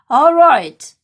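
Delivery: loud resolute call; Percy rallying the animals to pull; determined all right. Acted. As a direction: say it firmly, rallying everyone.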